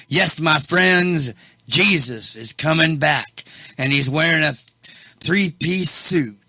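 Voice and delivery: a hint of a mimicked Bible expert's accent; Matthew Miller accent. Host quoting Bible expert on Jesus coming back, lightly mimicked accent. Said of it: "in that Matthew Miller accent".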